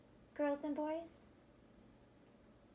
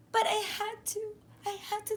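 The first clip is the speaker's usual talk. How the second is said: desperate; 9 semitones higher, 3 dB louder, much faster than usual. Acted. Distress before warning.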